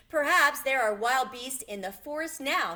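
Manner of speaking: put-on a worried little girl voice; Dorothy. A narrator's reading. Dorothy warning the lion about wild beasts, a little worried. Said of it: "said Dorothy".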